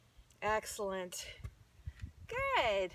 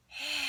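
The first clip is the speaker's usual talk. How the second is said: snake hiss; 4 semitones higher than usual. Shown as a demonstration. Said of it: "Take a breath in".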